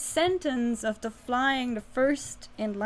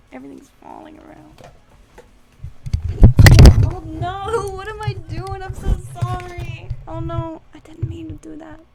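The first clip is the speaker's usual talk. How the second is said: higher, louder frantic apology; flustered oh-no panic; hammed-up frantic sorry; mock panic; 5 semitones higher, 15 dB louder than usual.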